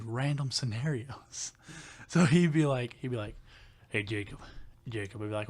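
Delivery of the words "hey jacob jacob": lower, softer imitated country voice; deep country coworker. Imitating the coworker calling Jacob, deep country voice. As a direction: drop low like a country coworker. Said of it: "he had a real deep down low voice".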